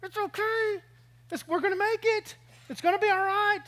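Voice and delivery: playful soothing voice, lightly acted; mock reassurance. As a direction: pretend calm, comforting her through turbulence. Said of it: "I'm going".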